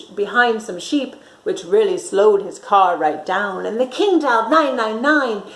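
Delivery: put-on lively read-aloud for children; storytime narration. A narrator's reading. Teacher reading a picture book to children, lively. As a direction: read it like a bedtime story for little ones.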